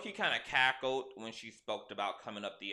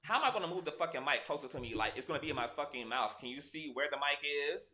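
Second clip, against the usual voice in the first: exasperated rant; 3 semitones higher, faster than usual. Real, not acted. Frustrated rant about the mic.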